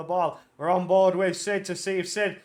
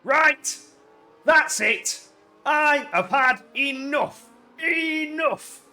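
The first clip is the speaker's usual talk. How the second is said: fed up; 5 semitones higher, much slower than usual. Retold or imitated. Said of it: "B K's like".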